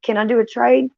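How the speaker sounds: talking to God, begging for a trade. Retold or imitated. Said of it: "asking God, like".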